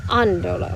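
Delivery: "andolo" stressed on the opening A; accent on the A. Shown as a demonstration. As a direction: keep the weight on the first syllable of "andolo". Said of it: "So I need an accent".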